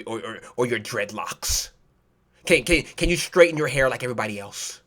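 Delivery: low, soft, hesitant white boss voice; hushed parody of a white manager; mock white boss. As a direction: stammer it softly and low, awkwardly official. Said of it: "despite you and your white voice".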